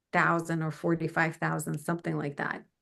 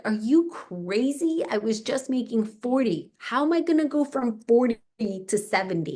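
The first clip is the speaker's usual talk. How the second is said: incredulous; 5 semitones higher than usual. Retold or imitated. Disbelief at husband's advice.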